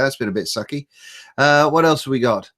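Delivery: talking between sips of tea; slurping tea. Real, not acted. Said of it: "sorry for the slurping sounds".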